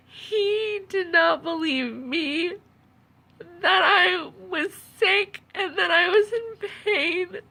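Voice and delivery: slow, tearful and wavering; after crying. Real, not acted. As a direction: hold back the tears as you speak. Tearful account of being disbelieved.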